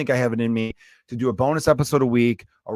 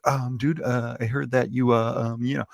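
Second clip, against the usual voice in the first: hesitant friend. Retold or imitated. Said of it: "that's more him".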